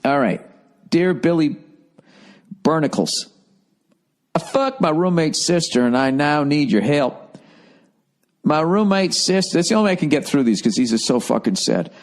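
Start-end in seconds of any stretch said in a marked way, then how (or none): 0.9-7.4 hammed-up Southern twang for reading a letter; silly Southern accent. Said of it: "I just have to do it in a silly accent". 8.4-9.6 raised, jokey Southern letter-reading voice; silly Southern accent. Acted. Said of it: "do it in a silly accent".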